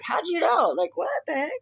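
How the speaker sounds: high-pitched mock of a surprised boyfriend. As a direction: squeak it out like he's baffled. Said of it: "he's just like".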